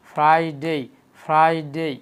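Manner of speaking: ফ্রাইডে drawn out as "frai-dey"; correct Friday. Shown as a demonstration. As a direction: say ফ্রাইডে loudly in two long halves. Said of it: "আমি আবার repeat করে দেখেন". (ফ্রাইডে শুদ্ধ উচ্চারণে, "ফ্রাইডেই")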